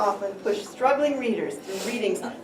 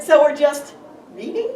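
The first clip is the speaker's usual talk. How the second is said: raised-voice question, hitting "So"; louder repeat; 2 semitones higher, 5 dB louder than usual. Acted. Asked to repeat the question to a partner, louder. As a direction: repeat "So we're just reading?" louder, rising at the end. Repeats after "What did you say?.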